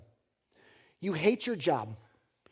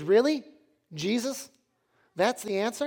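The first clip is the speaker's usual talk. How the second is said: higher-pitched disbelieving questions; incredulous; 4 semitones higher, 3 dB louder than usual. Acted. Buddy doubting the answer, incredulous. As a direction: question it in mild mock disbelief.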